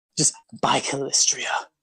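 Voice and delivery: theatrical stage whisper. Relaying what a character mutters under his breath in Elven, in a stage whisper. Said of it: "He's stage whispering".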